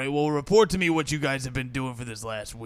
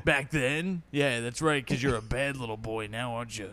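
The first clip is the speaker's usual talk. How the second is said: taunting; 4 semitones lower, 6 dB quieter than usual. Pretend. Mock taunting, fading soft.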